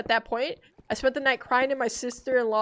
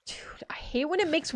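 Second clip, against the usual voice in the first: whisper; 5 semitones higher, 5 dB quieter than usual. Real, not acted. Creepy cave noise.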